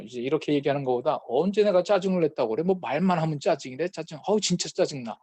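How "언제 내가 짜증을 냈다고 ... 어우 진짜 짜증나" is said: higher, exasperated denial; higher-pitched irritated comeback; mock irritated retort. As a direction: act out a touchy family member snapping back. Acted defensive reply in quarrel.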